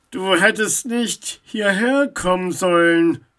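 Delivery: loud, menacing voice from the dark; mysterious unseen figure, forceful and foreboding; ominous warning. A narrator's reading. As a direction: warn the intruder with weight. Unknown voice from darkness warns Max.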